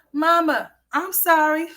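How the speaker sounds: high, whiny fake-sorry kid voice; mock crying. Mother mimicking her son apologizing, mock sobbing. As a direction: beg like a child pretending to cry. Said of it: "he be fake crying".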